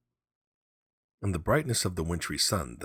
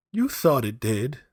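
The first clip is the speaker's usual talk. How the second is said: soothingly; 7 semitones higher, 7 dB louder, slower than usual. A narrator's reading. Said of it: "said the old lady soothingly".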